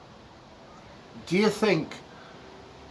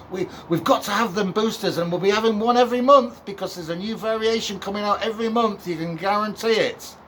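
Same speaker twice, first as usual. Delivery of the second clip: raised pitch, mock-panicked and sarcastic; sarcastic alarm; 5 semitones higher than usual. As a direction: sarcastically ham up the doom-mongers' panic.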